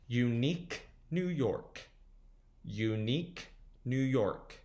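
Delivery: slow, separated words; slow tongue twister. Shown as a demonstration. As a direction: demonstrate it slowly, pausing between words. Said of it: "Let's try going a little faster".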